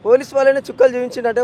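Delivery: real rage of a grieving father at the killer; furious outburst. Real, not acted.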